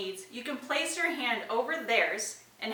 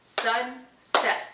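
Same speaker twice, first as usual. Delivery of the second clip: teacher prompt; slower than usual. Shown as a demonstration. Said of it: "you would say".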